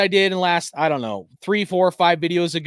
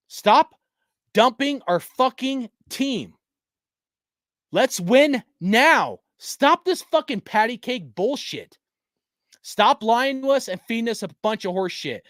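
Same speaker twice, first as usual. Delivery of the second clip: raised, higher voice, slow and punched; angry rant; 4 semitones higher, slower than usual. Real, not acted. Fan yelling at Raiders management to stop dumping the team, angry. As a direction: demand it like a furious fan.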